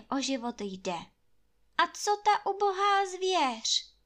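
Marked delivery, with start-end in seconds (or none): 1.8-3.9 much higher, louder desperate plea. A narrator's reading. Anče begging the landlord for the animals, higher and louder. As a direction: beg for the poor animals.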